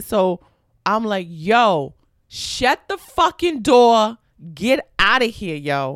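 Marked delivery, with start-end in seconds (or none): 1.3-6.0 put-on very slow, drawn-out, heavy Brooklyn accent. Speaker retells her reply to a woman who got in; retelling in a Brooklyn manner. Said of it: "You're being very Brooklyn".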